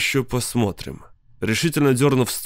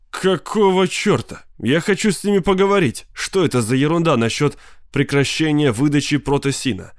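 indignant outburst; 4 semitones higher than usual. Acted. Sid furious at dead line.

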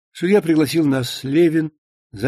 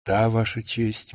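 ordinary delivery

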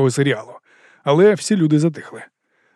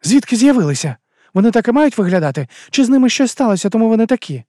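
higher, louder irritated woman; irritated question; 9 semitones higher, 5 dB louder than usual. A narrator's reading. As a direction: snap the question out, annoyed. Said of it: "роздратовано запитала Амена". (роздратоване запитання, вищим і гучнішим голосом)

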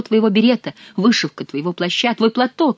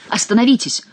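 higher, firmer demand; urgent call; 5 semitones higher, 4 dB louder than usual. Acted. Count urgently ordering the bearers to stop, raised cry. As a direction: push the plea up into a cry.

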